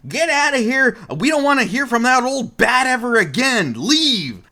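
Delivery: high, strained mock yell; angry grandpa. Grandpa yelling at visitor, high angry mock yell. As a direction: chase him off like a cranky grandpa. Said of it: "really upset".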